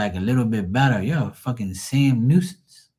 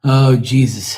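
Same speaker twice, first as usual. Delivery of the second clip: exasperated; 3 semitones higher, 8 dB louder, slower than usual. Retold or imitated. Retells exasperation at mom's lament.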